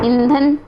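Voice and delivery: "ईंधन" said purely through the mouth; oral vowel. Shown as a demonstration. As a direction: keep "ईंधन" free of nasal sound. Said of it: "ईंधन, तो नाक से उच्चारण नहीं हो रहा". ("ईंधन" सिर्फ मुँह से)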